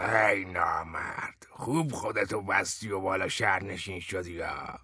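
a cunning madman's half-whispered jab; sly. Acted. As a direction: needle him slyly under your breath. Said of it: "موزیانه گفت".

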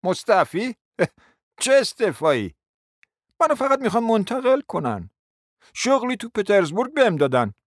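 curt, mildly scornful laugh and retort; rough retort. A narrator's reading. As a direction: brush it off roughly. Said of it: "با خشونت گفت".

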